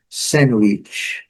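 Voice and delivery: "sandwich" with the D dropped; relaxed everyday "sandwich" without its D; everyday pronunciation. Shown as a demonstration. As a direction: say "sandwich" casually, no D sound. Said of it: "na conversa do dia a dia".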